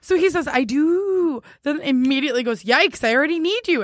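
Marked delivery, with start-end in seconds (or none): 0.5-1.4 mock-romantic reply. Repeating his drawn-out reply. 2.6-3.8 higher, mock over-eager confession; exclamation-point neediness. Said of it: "Exclamation point".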